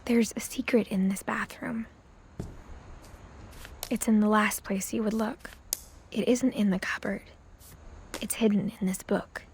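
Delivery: hushed secretive whisper. Acted. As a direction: breathe it like a secret. Reading a hidden note.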